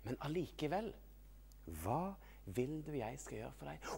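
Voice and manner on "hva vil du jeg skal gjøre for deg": gentle asking. Acted. Repeats Jesus' gentle question.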